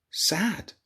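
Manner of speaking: soft unvoiced whisper; whispered sad. A narrator's reading. Reader hushing at the sad moment. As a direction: let the word fade into a whisper.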